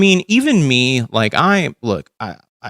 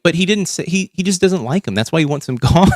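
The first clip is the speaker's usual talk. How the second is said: higher, whiny mimic of her excuse; mocking her excuse; 5 semitones higher than usual. Mocking the host's excuse for the guy, whiny mimic. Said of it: "just be just like".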